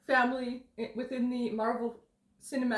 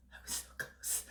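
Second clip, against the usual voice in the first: tag; 14 dB quieter than usual. Retold or imitated. Retelling a man crushed by failure.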